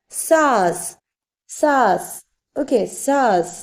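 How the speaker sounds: സാസ് with long aa straight into s; drawn-out model of സാസ്, no n sound; silent nasal. Shown as a demonstration. Teacher repeating for learners, സാസ് without the nasal. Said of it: "അന്നാസിക് ഉണ്ടെങ്കിൽ silent ആയതുകൊണ്ട്".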